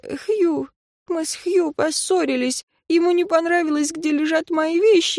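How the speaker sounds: put-on high, plaintive boy's voice; boy explains to the teacher how he got bullied; upset student. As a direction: complain like a shaken, wronged student.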